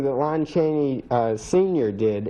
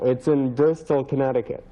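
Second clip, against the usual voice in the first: talking through false teeth. Real, not acted. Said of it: "Sorry, the teeth".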